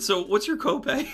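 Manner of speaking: laughing punchline. Retold or imitated. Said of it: "I said".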